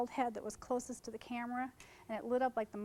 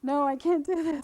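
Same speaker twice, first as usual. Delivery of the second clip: torn refusal; 10 dB louder than usual. Retold or imitated. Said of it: "I'm going".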